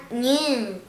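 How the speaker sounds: "ñ" said as nyi; letter sound ñ. Shown as a demonstration. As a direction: say "ñ" with a palatal n. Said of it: "La Ñ suena". (sonido de la ñ)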